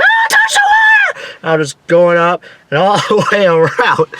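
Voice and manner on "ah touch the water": very high-pitched shriek; panicked scream. Retold or imitated. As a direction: squeal as if about to hit water. Screams while reliving near-water swoop.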